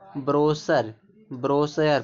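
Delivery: ब्रोशर with a sibilant in the middle, "bro-ser". Shown as a demonstration. Teacher showing how CH is read, ब्रोशर with a sibilant. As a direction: say ब्रोशर as "broser", no "ch". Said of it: "बड़ा सा का sound निकल रहा है".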